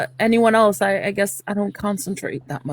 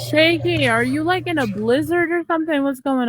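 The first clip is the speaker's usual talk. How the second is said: higher, swooping call; 4 semitones higher than usual. Real, not acted. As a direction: call over a bad connection, pitched up. Calling out to someone unresponsive.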